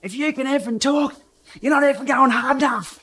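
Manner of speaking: high-pitched, hammed-up Aussie accent. Rival in the bunch taunts the rider, put-on Aussie accent. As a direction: imitate a heckling Aussie rider, pitched well up. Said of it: "That was me doing an Aussie accent".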